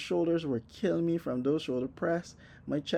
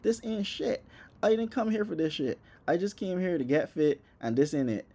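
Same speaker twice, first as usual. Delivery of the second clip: high, disbelieving complaint; exasperated; 4 semitones higher than usual. Retold or imitated.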